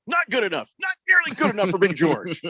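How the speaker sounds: high-pitched indignant cry; mock fan outrage. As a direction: play the never-satisfied fan. Mocking a demanding fan's view.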